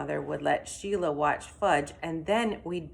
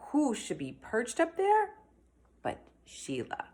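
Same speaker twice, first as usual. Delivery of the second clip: surprised; 8 semitones higher than usual. A narrator's reading. Surprise reveal of Sheila.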